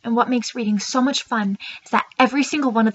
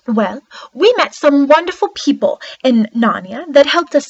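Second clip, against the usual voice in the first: lightly played storybook queen, lively and emphatic; a touch of regal wonder and excitement; young queen of Narnia; 4 dB louder than usual. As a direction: proudly tell of your magical kingdom, leaning on key words. Plays Queen Lucy of Narnia in monologue.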